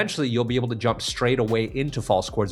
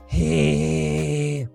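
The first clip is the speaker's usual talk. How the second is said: clean buzzer sound; 4 semitones higher, 3 dB louder than usual. Shown as a demonstration. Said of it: "get it clean, clear, and strong".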